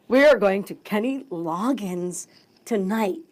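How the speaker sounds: slow, deliberate retold announcement; slow proud announcement. Wife phoning husband about concert tickets, slow announcement. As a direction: spell out the big news word by word.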